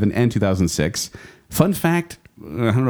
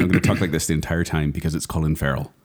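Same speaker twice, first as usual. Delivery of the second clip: light mock Irish accent; put-on Irish accent. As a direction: attempt Colin Farrell's Irish lilt, not very convincingly. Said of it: "I'm doing Irish".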